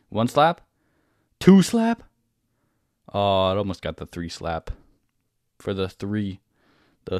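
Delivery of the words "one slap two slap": high, loud hype call; excited shout. Real, not acted. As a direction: hype each hit up. Cheering unit's hits.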